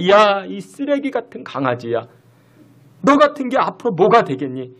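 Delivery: a retold mother's furious cursing, lightly acted; mock angry scolding. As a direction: scold the lazy son with venom. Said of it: "악에 받쳐서 욕을 하고".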